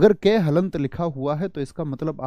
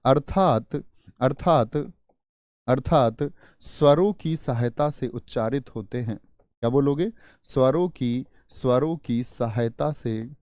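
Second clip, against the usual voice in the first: teacher dictating in repeated chunks; measured dictation with pauses between phrases. Acted. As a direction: say it phrase by phrase for note-takers. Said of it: "अगली परिभाषा इसी में note करना".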